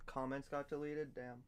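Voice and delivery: talking around a tablet under the tongue. Real, not acted. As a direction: speak with a pill under your tongue. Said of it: "keep the estrogen under my tongue".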